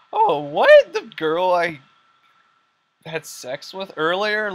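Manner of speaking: tiz, yüksek sesli şaşkın haykırış; shocked. Retold or imitated. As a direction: ihanete uğramış gibi şaşır. Batman shocked by betrayal.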